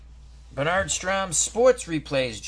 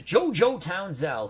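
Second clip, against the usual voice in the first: relishing the name; 6 semitones higher, 5 dB louder than usual. Real, not acted. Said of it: "Who doesn't like to say JoJo Townsell?".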